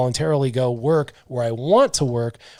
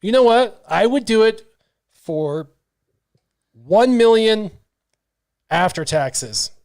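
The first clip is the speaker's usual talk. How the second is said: bold declaration; 7 semitones higher, 3 dB louder, slower than usual. Real, not acted. Declares own price boldly.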